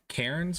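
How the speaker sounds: Cairns as CARE-unz, with the r sounded; unsure pronunciation. Shown as a demonstration. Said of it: "I had difficult with".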